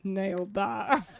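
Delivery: slow, dry, ironic; deadpan sarcastic. Retold or imitated. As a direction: say it with dry irony. Sarcastic after failed audition.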